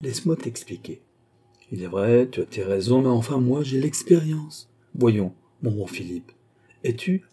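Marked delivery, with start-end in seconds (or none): 0.0-1.0 mildly coaxing; restrained impatience. A narrator's reading. Old father trying to explain, reining in impatience. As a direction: reason with him a little more gently. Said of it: "reprit plus doucement le vieillard".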